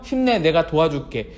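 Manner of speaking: tender acted encouragement; consoling. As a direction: reassure a friend who was scolded. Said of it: "위로해주면서".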